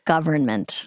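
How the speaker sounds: "government" slowly, with the R sounded; slow, deliberate government, every syllable in place; corrected pronunciation. Shown as a demonstration. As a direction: say government carefully as GUV-ern-ment. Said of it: "and get rid of that".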